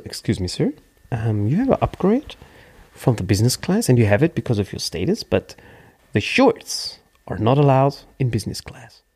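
a stiff, polite official voice; mock polite attendant. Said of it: "der so". (steif höflicher Angestellter)

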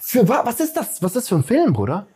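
high-pitched, exasperated questioning; real indignant rant; angry ranting. Real, not acted. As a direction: sputter in disbelief at how bad it is. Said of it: "ich bin richtig sauer".

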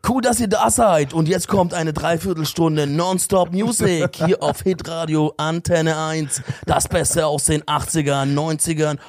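langsam, getragen wie ein Sender-Jingle; Radiomoderator. Shown as a demonstration. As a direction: Radiosprecher mit Jingle-Pathos. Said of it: "moderier mal die achtziger". (langsame Radiomoderatoren-Stimme)

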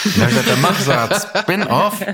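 laughing through the words, voice lifting high. Real, not acted. Author laughing at his own old decision, laughing while speaking. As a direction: let a real laugh break into the line.

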